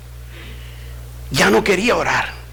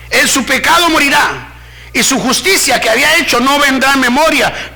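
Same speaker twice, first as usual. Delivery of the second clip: forceful scripture reading; 6 semitones higher than usual. Acted. Preacher reading God's warning to the church, forceful. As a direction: preach the verse out, pitched up.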